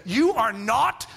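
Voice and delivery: slow, firm mock mother; stern mom. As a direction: lay down the law slowly. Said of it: "and my mom said".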